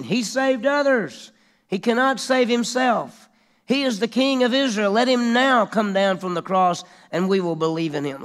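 high, loud scornful jeer; mock him like the priests at the cross. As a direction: chief priests jeering at Jesus, high and loud. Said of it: "were mocking him".

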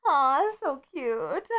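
slow drawn-out aww; slow cooing "so cute". Real, not acted. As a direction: melt over something adorable.

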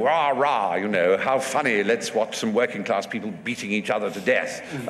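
lightly mocking braying toff; a hint of hooray-Henry jeering; Regency bucks. Mimicking bucks out watching fights for fun, light mocking upper-class bray. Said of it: "Regency bucks who used to".

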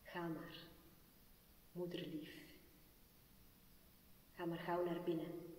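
soft, hushed farewell; whisper. Acted. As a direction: barely breathe the words to her. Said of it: "fluisterde hij".

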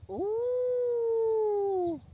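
high drawn-out hoot; owl hoot. Shown as a demonstration. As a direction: hoot as you turn. Owl hoot while turning.

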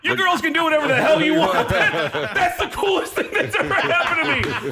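high, overexcited gushing; giddy elation. Retold or imitated. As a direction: gush as if it's the best day ever. Thrilled reaction to the girls.

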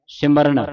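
ਸਿਮਰਨ ending in a retroflex ṇ. Shown as a demonstration. Teacher showing students the letter naana, retroflex n. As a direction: curl the tongue for the last n of ਸਿਮਰਨ. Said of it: "ਨਾਣੇ ਦੀ ਆਵਾਜ਼ ਉਚਾਰਨ ਕਰਨੀ".

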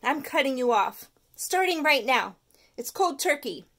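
mean every word; determined. Acted. Stuart cutting off his tooth, firm. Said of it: "a suddenly determined Stuart".

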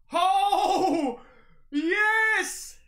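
high, loud yes of joy; delighted cheer. Real, not acted. Vlogger finding his favourite item, delighted cheer. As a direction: celebrate the find.

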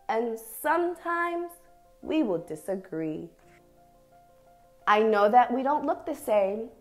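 measured, expressive picture-book reading with long pauses; reading to children. Acted. Teacher reads an affirming picture book to young dancers, expressive story reading. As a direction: read each short phrase deliberately, letting it settle.

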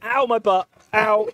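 hammed-up pained yelp; mock yelp after a fall; tripping and falling.

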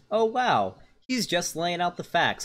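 high-pitched sarcastic wonder; mock amazement. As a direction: act wowed, pitched well above normal. Sarcastic quote of imagined reaction.

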